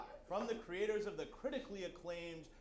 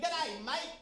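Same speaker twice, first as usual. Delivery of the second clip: high, muddled British-Australian mock accent; cheery, high put-on British accent; 8 semitones higher, 4 dB louder than usual. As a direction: botch a British accent, pitched up. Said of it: "Heavy with British accents and phrases like".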